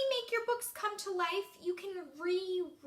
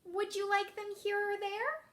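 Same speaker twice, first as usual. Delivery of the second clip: tag; 4 semitones higher than usual. Shown as a demonstration. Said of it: "he looks happy".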